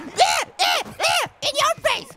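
drawn-out in-your-face jeer; slow gloating taunt. Real, not acted. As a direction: rub it in slowly. Taunting the opponent back.

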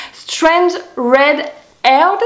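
nom anglais dit avec un fort accent français; French-accented English. Real, not acted. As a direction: prononcer Strange Red Haired à la française, maladroitement. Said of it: "avec mon accent anglais de merde". (accent anglais approximatif d'une Française)

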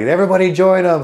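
loud, high command shouted to the whole line; drill sergeant order. Retold or imitated. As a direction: order everyone down at full volume. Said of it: "he's like".

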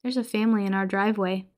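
offhand and matter-of-fact; casual. Retold or imitated. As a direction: drop it like it's nothing. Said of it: "very casually says".

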